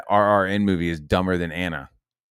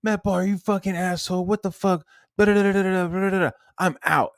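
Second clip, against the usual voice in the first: high, hammed-up indignant rant; mocking shitty outburst; 12 semitones higher than usual. Mocking Anna yelling at him before leaving, high and snotty. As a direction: mimic her storming off in a huff. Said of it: "starts fucking getting all shitty".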